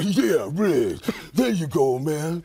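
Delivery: breathless Danny Glover voice; lightly voiced panting Glover; out-of-breath cop voice; Danny Glover impression. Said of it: "always out of breath".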